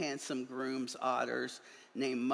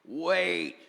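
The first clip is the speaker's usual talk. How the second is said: sudden loud stop; mild scary voice interrupting; 5 semitones higher, 5 dB louder than usual. A narrator's reading. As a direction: cut them off sharply. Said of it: "said a scary voice".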